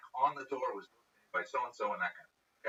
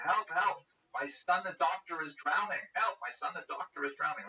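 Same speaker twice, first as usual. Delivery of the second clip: retold scream; 7 semitones higher than usual. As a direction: yell it like a panicked mother on the riverbank. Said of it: "and she's screaming, screaming".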